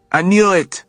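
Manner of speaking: high, loud triumphant cry; excited exclamation. A narrator's reading. Leon recognizing Alec from the rooftop, thrilled. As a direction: burst out with glee.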